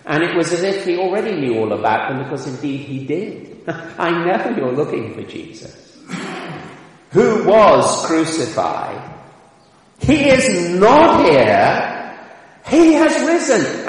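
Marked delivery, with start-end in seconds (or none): 3.7-13.9 building from gentle to a high, loud, slow proclamation; the angel's news swells into a joyful shout; exhilarated message. Retold or imitated. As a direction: rise to a triumphant announcement. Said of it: "what is really exhilarating is his message".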